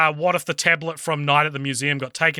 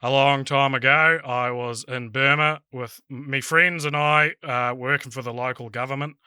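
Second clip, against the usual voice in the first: put-on Southern Kiwi accent, lightly done; Alfred's monologue in an Invercargill accent; New Zealand accent. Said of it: "in a New Zealand accent".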